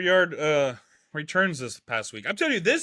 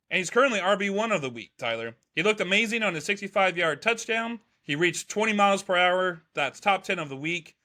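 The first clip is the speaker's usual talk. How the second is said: ordinary talk, nothing marked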